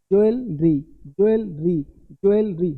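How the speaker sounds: "ज्वेलरी" as joo-el, ree; steady repeats of "ज्वेलरी" in two beats; correct pronunciation. Shown as a demonstration. Teacher drills the nice sound, correct pronunciation. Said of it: "है ना sound अच्छा?".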